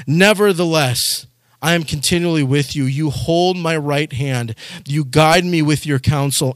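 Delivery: measured, solemn reading of the psalm; scripture reading. Acted. Pastor reading the psalm to his congregation, solemn reading.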